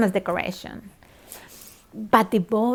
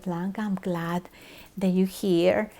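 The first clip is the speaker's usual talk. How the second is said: gentle welcome; 6 dB quieter than usual. Retold or imitated. Priest welcoming a distraught newcomer, gently. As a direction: softly imitate a kind priest.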